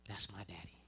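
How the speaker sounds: whispered, almost under the breath; hushed aside. Real, not acted. Comic whispering about his quiet dad. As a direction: let it slip out in a whisper.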